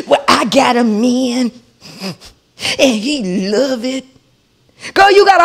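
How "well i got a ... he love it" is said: mocking neighbour.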